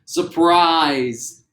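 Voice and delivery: surprised. Shown as a demonstration. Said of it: "be so surprised".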